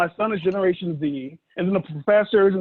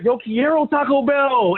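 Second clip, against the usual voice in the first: mock ad catchphrase; 4 semitones higher, 5 dB louder, slower than usual. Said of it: "I was saying jokes like".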